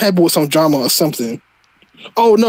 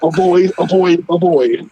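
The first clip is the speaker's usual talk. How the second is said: mock promo voice; slower than usual. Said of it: "Like, what?".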